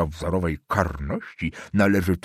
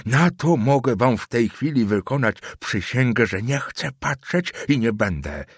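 put-on higher, vehement old man swearing an oath; old councillor denouncing the student, higher and vehement; 6 semitones higher than usual. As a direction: denounce the boy to the family.

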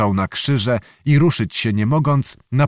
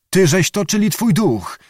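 startled call; 7 semitones higher than usual. A narrator's reading. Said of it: "krzyknął pan Jan".

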